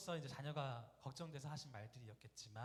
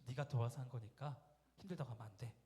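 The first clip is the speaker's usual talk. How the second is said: cutting rebuke; 3 semitones lower than usual. Retold or imitated. Mother sharply cutting off her tired son's complaint. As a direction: cut him off like a knife. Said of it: "칼 자르듯이".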